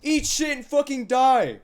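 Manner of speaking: high, drawn-out mock scream; over-the-top, stretched-out threatening yell; imagined threat. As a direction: scream it like a threat across a parking lot. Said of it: "this is how I imagine it would go".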